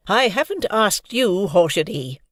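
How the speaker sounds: high, slow stern rebuke; sternly. Acted. Missus Hamilton silencing Scooter, stern. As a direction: cut him off firmly. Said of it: "noted sternly".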